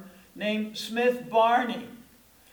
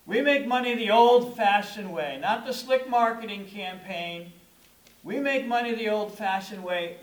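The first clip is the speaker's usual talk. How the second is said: louder, rising proclamation; proclaiming; 3 semitones higher, 5 dB louder than usual. Retold or imitated. Preacher voicing the firm's boast, louder. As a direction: declare it proudly to the congregation. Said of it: "Smith Barney was saying".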